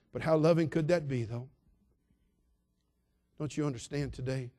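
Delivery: ordinary talk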